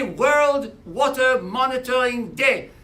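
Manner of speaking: English words in a playful French accent. Shown as a demonstration. Waterkeeper naming the day in English for French listeners, French accent. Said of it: "avec mon accent français".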